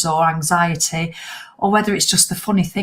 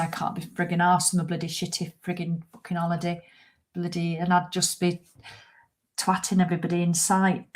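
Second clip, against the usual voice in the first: mock rant; 7 dB quieter than usual. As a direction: grumble it out under your breath like you can't be bothered. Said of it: "I'd say it completely differently to that".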